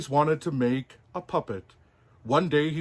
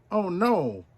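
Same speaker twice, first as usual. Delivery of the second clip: sighed; 7 semitones higher, 4 dB louder than usual. Acted. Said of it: "Pinocchio sighed".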